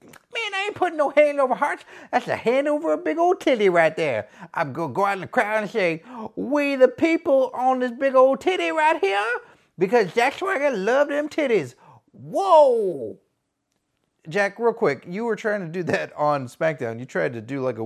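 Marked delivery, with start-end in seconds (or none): 0.0-11.7 high, cocky gangster wrestler voice; hyped gangster heel cutting a promo, voice pitched up; gangster wrestler persona. Acted. 12.1-13.2 loud whoa. Acted. Exclamation whoop.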